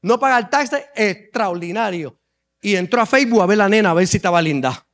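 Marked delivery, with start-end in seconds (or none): 0.0-2.2 low, drawn-out amazement; a boy dazzled by the reward, low and slow; awed David. Acted. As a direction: savor each prize in a low marveling voice. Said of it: "Y él dijo".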